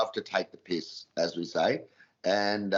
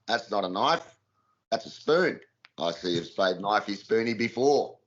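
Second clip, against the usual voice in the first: Simpsons spoof line; 3 semitones lower than usual. Shown as a demonstration. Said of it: "the Simpsons ones".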